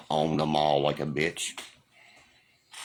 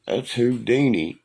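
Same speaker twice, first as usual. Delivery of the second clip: emphatic correction; 6 semitones higher, 3 dB louder than usual. Retold or imitated. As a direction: hammer home "Houdini" like it's obvious. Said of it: "I said, I said".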